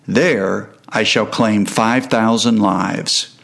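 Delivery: slow, ominous and cold; chilling voice of pestilence. Acted. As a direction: speak slowly, like death itself. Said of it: "In a voice which would send shivers through your soul".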